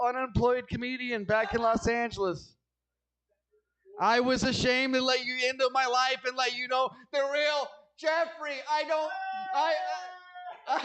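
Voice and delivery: put-on rising, pleading confession to a girlfriend. Comic to girlfriend, an earnest pleading confession. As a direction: beg her to accept the real you, voice climbing.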